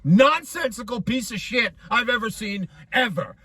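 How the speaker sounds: real but contained outburst; worked-up yelling. Real, not acted. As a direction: rant about how bad it was. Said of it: "I'm sorry for yelling".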